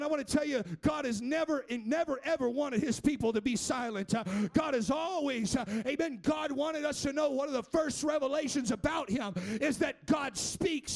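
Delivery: rising preacher's cadence, half shouted; preaching. Acted. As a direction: build the sermon back up to fervour. Preaching builds again.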